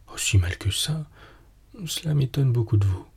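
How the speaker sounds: ordinary delivery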